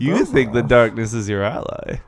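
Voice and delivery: Bane voice. Retold or imitated. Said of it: "Are we just gonna do Bane now".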